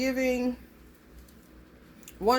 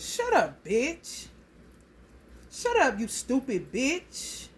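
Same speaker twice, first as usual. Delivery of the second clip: lightly imitated child, pitch jumping up then lifting at the end; mock a bold little kid's retort; hint of a sassy small child; little kid talking back; 2 semitones higher, slower than usual. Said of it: "And the little baby".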